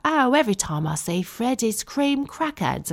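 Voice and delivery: a light take on the nanny's voice, high; imitating the nanny. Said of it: "And she was like".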